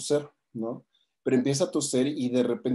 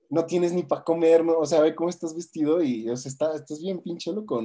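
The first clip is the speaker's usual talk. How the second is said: higher, incredulous put-down; raised-voice mock dismissal; retold scornful disbelief; 5 semitones higher than usual. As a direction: imitate someone scoffing at an absurd claim. Pair scoff at homeless man's claims.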